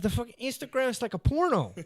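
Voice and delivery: high, loud, laughing through the quote; cracking up while quoting him. Retold or imitated. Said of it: "he said".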